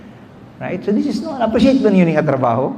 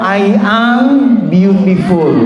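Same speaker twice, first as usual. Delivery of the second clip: louder, firm affirmation; with conviction; 5 dB louder, slower than usual. Shown as a demonstration. Coach leading the crowd's affirmation, loud and sure. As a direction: say it like you mean it. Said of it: "say it with conviction".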